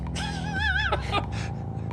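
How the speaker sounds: soft, high wheezy laugh; stifled high-pitched laughter; real laughing. Real, not acted. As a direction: quietly crack up off to the side. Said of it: "but he's laughing".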